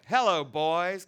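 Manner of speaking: high, loud come-on to the room; cried out to the men, loud and high; sultry cry.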